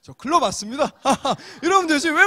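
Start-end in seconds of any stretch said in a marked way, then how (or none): 0.0-0.9 조금 크게, 거리낌 없이 인사하듯; 숨길 것 없다는 듯 말하기; 당당한 인사 시범. Shown as a demonstration. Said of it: "여러분, 당당하게". (당당하게 말하는 시범)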